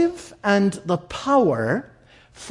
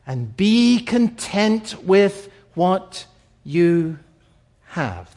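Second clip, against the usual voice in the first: "Keep your life free" spaced out word by word, very slow; slow emphatic command; slower than usual. Shown as a demonstration. Preacher pressing the key command on listeners, slow and weighty. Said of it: "So here's this command, and it's really important".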